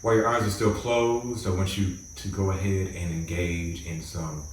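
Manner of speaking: calm, measured meditation guide with long pauses; guided meditation. Acted. Host guiding listeners to close their eyes and relax, guided meditation. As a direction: ease them into relaxing, phrase by phrase.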